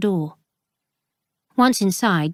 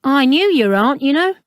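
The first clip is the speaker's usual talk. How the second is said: lightly voiced pompous bookseller, higher and louder; a hint of a swaggering dealer, chatty; Ralston's voice; 7 semitones higher, 6 dB louder than usual. Bookseller claims to know Flora's aunt, lightly voiced.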